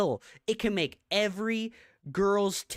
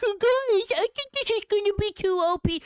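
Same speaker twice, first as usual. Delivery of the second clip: high, mocking squeaky voice, louder; mocking whiny quote; 5 dB louder, faster than usual. Streamer mocking a Reddit poster, squeaky high mockery. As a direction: mimic a timid player fretting, pitched way up. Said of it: "you were like".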